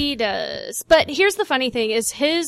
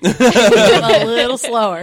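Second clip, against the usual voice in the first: asking to slow down; 2 semitones lower, 8 dB louder, slower than usual. Pretend. Asking a Cajun to repeat.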